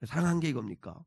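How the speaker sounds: low, soft sceptical grumble; cynical reaction. Acted. People questioning God's love, in a quiet cynical grumble. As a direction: doubt it under your breath, cynically. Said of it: "냉소적인 반응을 보이는 질문".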